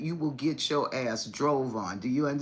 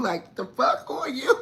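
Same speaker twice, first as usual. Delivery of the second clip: loud high disbelieving yell; indignant shout; 7 semitones higher, 3 dB louder than usual. Retold or imitated. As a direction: shout in outrage. Indignant retort to accuser.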